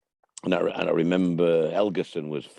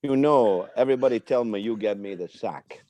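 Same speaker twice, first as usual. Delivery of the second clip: put-on easy Moroccan accent on the manager's lines. Manager telling a striker he'll get him sacked, in a Moroccan accent. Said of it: "my Moroccan accent".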